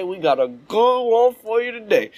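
a light touch of Steve Harvey; Steve Harvey impression. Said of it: "as Steve Harvey would say".

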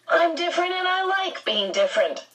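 loud, high-pitched insistence; unnaturally loud. Acted. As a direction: push the voice up, too loud. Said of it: "Calvin's voice was unnaturally loud".

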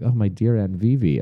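a hint of fake French accent, sighing "Oh, my dear Aunt Vivi"; light fake French accent. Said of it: "I spoke in a French accent".

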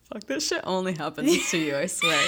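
incredulous exclamation. Real, not acted. Exclaiming in disbelief.

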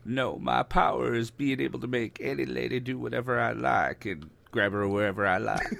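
lightly voiced Southern politician; easygoing drawled ex-president impression; Bill Clinton. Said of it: "so Bill there".

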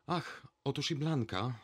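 high excited exclamation; exclaim. A narrator's reading. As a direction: call out on spotting a friend. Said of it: "krzyknęła". (radosny okrzyk)

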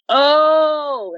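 high surprised oh; sudden realisation. Retold or imitated. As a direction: catch it suddenly, like you just recognised him. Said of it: "and I'm like".

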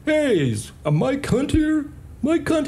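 high, slow mocking page; bartender doing voices. Jerk bartender making fun of the page, high calling voice. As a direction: call out a name across the bar. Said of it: "and doing in voices".

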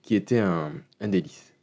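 voix entre deux gorgées; en buvant une gorgée. Real, not acted. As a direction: parler en sirotant un jus. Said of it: "je vais prendre une petite gorgée". (en sirotant une boisson)

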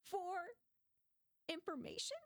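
playfully claiming it's work; gleeful excuse. Retold or imitated. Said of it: "I was like".

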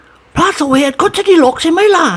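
high, slow teasing lady voice; a giggling noblewoman teasing; lady's voice. A narrator's reading. Giggling lady teases the servant in a high slow voice. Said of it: "หัวเราะคิก".

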